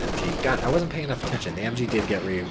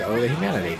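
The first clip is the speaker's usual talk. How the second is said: Hindenburg announcer quote; 5 dB louder than usual. Retold or imitated. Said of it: "all I remember from the Hindenburg is".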